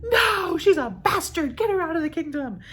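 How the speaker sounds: high, loud, dismissive king; angry king. Retold or imitated. Leontes rejecting his newborn daughter, high and loud. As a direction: throw her out like a raging king. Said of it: "And Leontes is like".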